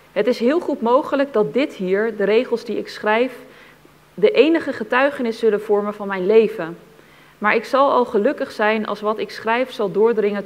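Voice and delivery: measured, deliberate reading of a written testimony; solemn testimony reading. Acted. Reader passing on a buried witness account to listeners, solemn. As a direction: read it out with weight, phrase by phrase. Reads a second testimony fragment.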